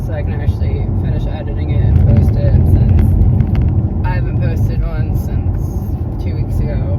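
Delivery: talking while driving over bumps; on a bumpy road. Real, not acted. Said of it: "Sorry for the bumps in the road".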